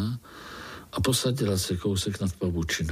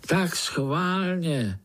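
annoyed; 6 semitones higher, much slower than usual. Acted. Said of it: "naštval se Pája".

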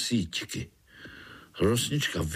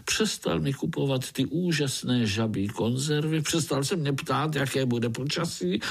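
lightly lamenting frog lady; 3 semitones higher than usual. Acted. Rosnička's high voice continues.

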